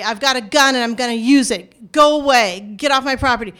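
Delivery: a restrained mock yell through a door; retold yelling. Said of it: "They're yelling through a door".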